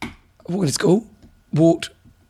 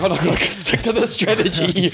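higher-pitched mocking quote; mock stubborn runner; 4 semitones higher than usual. Imagining runner near the finish sticking to plan, mock protest. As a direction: put on a fretful runner's protest. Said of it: "You're like".

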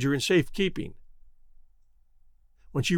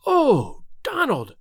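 high, breathless cry of joy; overwhelmed cry; 7 semitones higher, much slower than usual. A narrator's reading. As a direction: call out to him, overcome. Recognizes lost brother.

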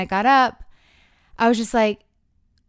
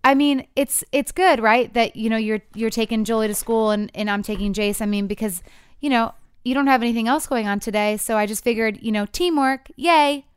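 very nice; 2 semitones higher than usual. Retold or imitated. Wife to husband, sweetly selling the morning plan. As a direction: chirp it like a cheerful teammate. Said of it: "So I say in a very nice".

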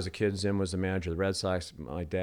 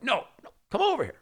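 insistent call; 3 dB louder, faster than usual. Retold or imitated. Insisting buddies come over.

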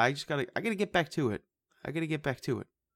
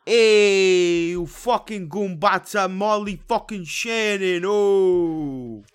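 much higher, loud, slow put-on character voice; Molly Shannon impression; 8 semitones higher, 10 dB louder, much slower than usual. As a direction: belt it like a brash comedy character. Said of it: "my Molly Shannon".

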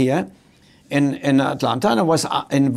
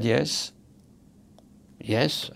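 hostile teller; 5 semitones lower, 8 dB quieter than usual. Retold or imitated. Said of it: "she hated me".

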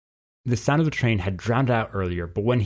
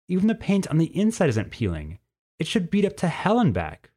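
rising higher as the worry builds; lightly voiced nervous bird teen, growing agitated; uneasy Sherman; 5 semitones higher than usual. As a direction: pitch climbing with each doubt. Sherman uneasy about the train.

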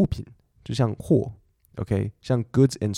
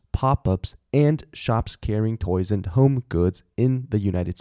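careful, slow reading of an English headline; deliberate teacher's news reading; slow news read-aloud; slower than usual. Shown as a demonstration. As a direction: read it out slowly so learners can follow. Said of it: "我现在念给你这则新闻".

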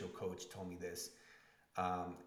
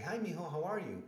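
lighter, higher mom greeting; 9 semitones higher, 5 dB louder than usual. Retold or imitated. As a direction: sing it like a cheerful mother. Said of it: "And she's like".

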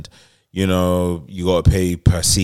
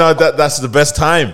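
mock blissful couple; 6 semitones higher than usual. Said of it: "The man them saying".

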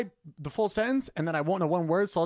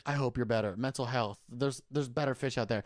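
lower, softer consoling voice; mild mock sympathy; 6 semitones lower, 4 dB quieter than usual. Imagined fans console a heartbroken singer, mock-sympathetic. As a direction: lightly play the caring commenter, low and soft.

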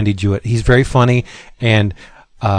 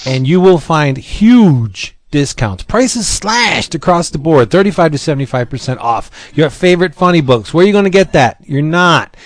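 hard sell ad. Acted. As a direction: sell it like a radio ad. Sponsor ad read.

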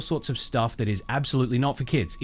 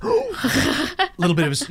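a gasp then whispered words; scandalized hush after a gasp; 5 dB louder, slower than usual. Retold or imitated. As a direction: whisper as if shocked.

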